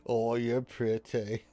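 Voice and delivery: shy anime crush. Acted. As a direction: tap fingers together and gush. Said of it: "that thing you've seen in anime".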